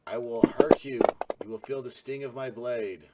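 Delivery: flat, menacing scorpion monster; monotone monster voice. Acted. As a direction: threaten in a monotone drone. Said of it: "I can tell by your monotone voice".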